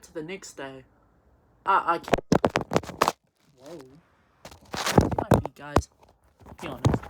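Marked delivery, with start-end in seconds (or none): 1.6-7.0 a real laugh breaking the story up; laughter taking over the telling; cracking up. Real, not acted. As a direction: lose it laughing, words barely coming through.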